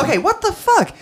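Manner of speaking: high laughing exclamation. Real, not acted. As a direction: shriek it through a laugh. Laughing outburst.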